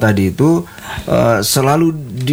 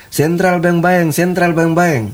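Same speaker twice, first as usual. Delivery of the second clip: slow, raised-pitch mock call; imitated calling out; 5 semitones higher, slower than usual. Retelling a patient's dying cry, imitated calling out. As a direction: draw out each word like a tout. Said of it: "karena dia teriak".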